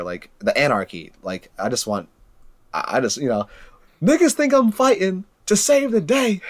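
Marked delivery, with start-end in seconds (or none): 4.0-6.4 high, loud cartoonish villain boast; mock villain voice. Friend acting out Goblin's boast to his friend, high mocking villain voice. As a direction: ham it up as a gleeful Goblin.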